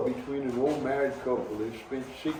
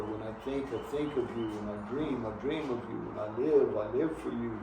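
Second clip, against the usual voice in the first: put-on lovesick boy; 3 semitones lower, 6 dB quieter than usual. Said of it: "thinking how much he loves her".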